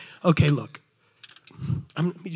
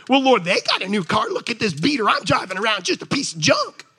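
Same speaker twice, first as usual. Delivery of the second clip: mock complaining; 3 semitones higher, 4 dB louder than usual. Complaining believer voiced to God.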